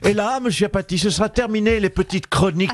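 Marine Le Pen impression. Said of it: "Marine Le Pen, bonjour".

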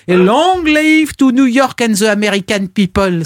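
a French statesman toasting a foreign crowd; de Gaulle's thick accent. Retold or imitated. Historian quotes de Gaulle in America, declaiming in thickly French-accented English. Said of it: "avec un accent parfois coupé au couteau".

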